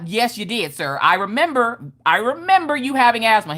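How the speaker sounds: emphatic mock-indignant protest; retold yelling. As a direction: act out digging in against dad. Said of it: "And I'm yelling".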